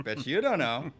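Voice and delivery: loud mock taunt; teasing put-down in imitation; mock negging. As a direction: imitate a barker needling the customer. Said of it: "threw in a little Marvel negging".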